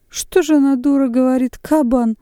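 very high, loud astonishment; goggle-eyed disbelief; astonished. A narrator's reading. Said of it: "выпучив глаза".

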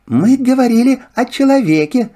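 high, lively fox. Acted. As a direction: chatter like a sly fox. Fox speaks. (голос лисы)

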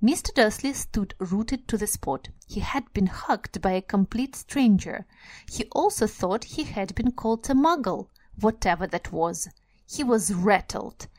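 story reading. Acted. Reads the passage again.

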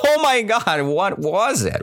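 high, amused disbelief, hammed-up; bursting out laughing. Teacher acting the confused old woman, bursting out amused. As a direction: burst out high, then drop. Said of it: "she burst out laughing too".

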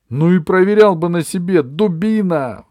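high, loud shriek. A narrator's reading. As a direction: screech it in fury. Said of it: "взвизгнул Джонни".

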